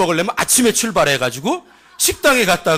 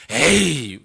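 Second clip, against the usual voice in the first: lightly acted scoffing; doubting villager; 3 semitones lower than usual. Villager doubts the cousin's tale, lightly acted scepticism. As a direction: scoff like a disbelieving neighbour. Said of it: "이러면".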